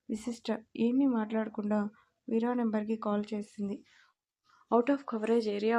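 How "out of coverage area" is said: slow, even automated operator voice; recorded phone message. Retold or imitated. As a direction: read it out like a phone network message, drawn out. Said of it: "అనే వస్తుంది".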